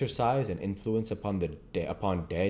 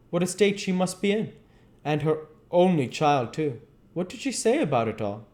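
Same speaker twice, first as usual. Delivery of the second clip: anxious friend, pitched higher; worried Basil; 7 semitones higher than usual. Acted. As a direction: plead with Dorian, worried and upset. Basil voiced, worried and pleading.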